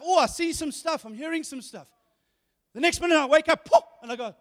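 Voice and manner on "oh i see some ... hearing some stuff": high, eager spirit making discoveries; pitched up with excited wonder, tailing softer. Acted. Preacher voices the spirit seeing and hearing things, excited. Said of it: "He's very excited".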